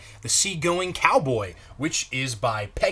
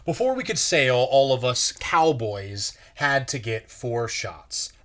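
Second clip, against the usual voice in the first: put-on reading a picture book aloud to kids; gentle storyteller pace for children; story narration. A narrator's reading. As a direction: read it like a pastor's children's story time. Pastor reads picture book aloud.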